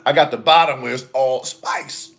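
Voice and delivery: scratchy, strained throat voice; irritated voice. Real, not acted. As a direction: speak through an irritated throat. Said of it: "my voice is already irritated".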